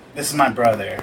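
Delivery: plain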